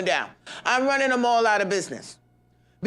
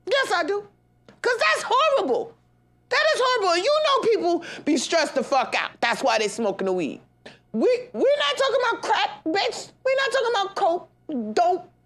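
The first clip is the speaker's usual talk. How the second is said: high exasperated rant; 9 semitones higher than usual. Real, not acted. Ranting at weed sellers.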